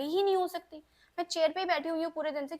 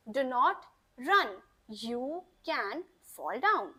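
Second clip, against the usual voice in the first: model sentence; 3 semitones lower, much slower than usual. Shown as a demonstration. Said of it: "तो मैंने उसको क्या बोला?".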